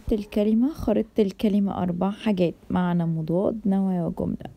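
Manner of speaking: loud teaching voice. Real, not acted. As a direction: call it out to the whole room. Teacher announces word map loudly.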